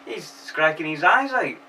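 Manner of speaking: mock Japanese Prime Minister. Prime Minister weeping over Godzilla, lightly voiced. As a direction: play a weepy politician lightly. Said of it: "He's like".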